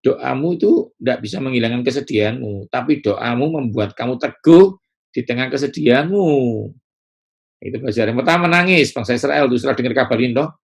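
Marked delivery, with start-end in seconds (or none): none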